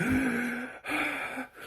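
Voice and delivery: sharp high gasp of a tense viewer; shocked gasp. Retold or imitated. Viewer on the edge of the seat, a sharp high gasp. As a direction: gasp like you can't breathe from suspense. Mimics white-knuckle viewer gasping.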